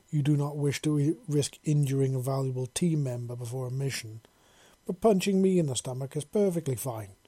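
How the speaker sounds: lightly mocking a gruff teammate; a hint of a gruff alien. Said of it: "trying to do a mock version of Tashara's gruff voice".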